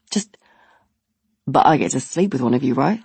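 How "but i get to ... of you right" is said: dropped low, deadpan; lower guy voice. Retold or imitated. The guy asks his cheeky question, low deadpan. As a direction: drop low and ask it straight.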